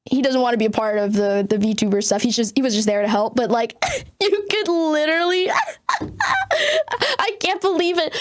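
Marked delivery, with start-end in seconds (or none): 4.0-8.1 high, slow words broken up by laughter; laughing. Real, not acted. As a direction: laugh through it in disbelief. Laughing at the memory.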